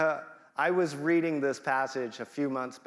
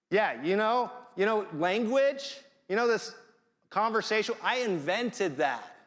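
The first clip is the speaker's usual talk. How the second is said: raised, playful God voice paraphrasing scripture; God's voice; 6 semitones higher than usual. Pretend. Pastor voicing God to Moses, playful and raised. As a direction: speak as God teasing Moses gently.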